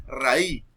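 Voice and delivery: "raí" without the final Z sound; "raí" ending open on the vowel; dropped final S. Shown as a demonstration. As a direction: say "raí", dropping the last consonant. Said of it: "Raíz".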